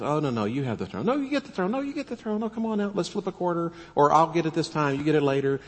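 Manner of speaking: hammed-up, pitch jumping high on "No, you get the throne"; mock polite insistence. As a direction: play an overly gracious friend politely refusing the throne. The speaker's mock back-and-forth over throne.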